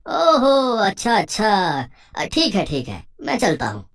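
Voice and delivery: loud, high drawn-out realization; Santram. Acted. Friend accepts Tara's explanation about her uncle's field, loud dawning realization. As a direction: exclaim it high and loud as it dawns. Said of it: "बिज्जू का दोस्त संतराम".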